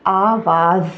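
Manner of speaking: आवाज़ with a long drawn a; correct pronunciation. Shown as a demonstration. Teacher shows learners how to say आवाज़ correctly. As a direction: stretch the vowel in आवाज़. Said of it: "सही अदायगी हम क्या करेंगे".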